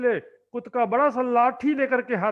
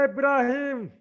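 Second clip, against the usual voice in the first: mildly raised, threatening yell; retold angry shouting. Mohabbat Khan shouting for Ibrahim at the wedding, mock angry. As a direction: call him out like a furious Pathan. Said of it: "वहां पर चिल्लाने लगा".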